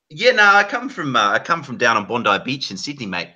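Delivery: put-on light Aussie accent; Australian accent. Speaker showing friends their fake Australian voice, Australian accent.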